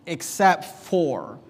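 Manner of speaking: "except for." slow and weighted; drawn out slowly. Shown as a demonstration. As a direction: stretch out "except for.". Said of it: "the emphasis in the chapter".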